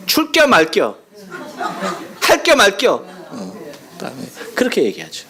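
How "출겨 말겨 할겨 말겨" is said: 웃으며 충청도 사투리; Chungcheong dialect. Shown as a demonstration. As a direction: rattle off the dialect questions with a laugh. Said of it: "간단하죠".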